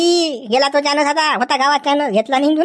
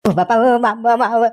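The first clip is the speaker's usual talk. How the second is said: wailing in pain. Acted. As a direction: howl as the blows land. Beaten man wails.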